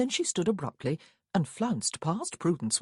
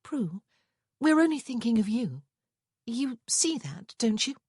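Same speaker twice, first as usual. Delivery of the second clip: sweet smile; 6 semitones higher than usual. A narrator's reading. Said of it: "smiled sweetly".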